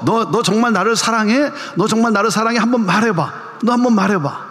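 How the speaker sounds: a hint of a sly, cynical Jesus; mock-sarcastic test of love, barely voiced; cynical question. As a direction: lightly tease him with a knowing smile. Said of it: "그렇게 시니컬하게 묻는 질문이냐".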